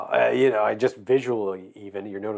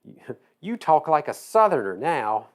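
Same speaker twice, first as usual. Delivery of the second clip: slow, higher mock Missouri accent; badly faked, drawn-out Missouri accent; attempted Missouri accent; 4 semitones higher, slower than usual. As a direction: have another halting go at Missouri speech. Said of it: "I can't even do a Missouri accent now".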